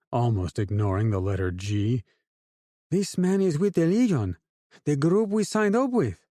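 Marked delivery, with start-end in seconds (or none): 2.9-6.3 put-on "Legion" with a Hispanic accent, voice raised high; a drug lord's Hispanic accent, pitched up, "Legion" without the G. A narrator's reading. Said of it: "in a thick Hispanic accent".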